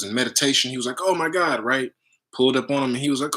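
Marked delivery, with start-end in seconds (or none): 1.0-1.6 retold awe, pitched up; excited. A traveler spots his master meditating, mock excited. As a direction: play the amazed seeker briefly. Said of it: "he was just excited".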